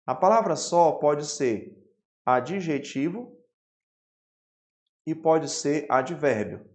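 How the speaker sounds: slow, spaced-out dictation pace; teacher dictating the rule word by word. Shown as a demonstration. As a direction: spell it out slowly for note-taking. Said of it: "Anote aí, por gentileza".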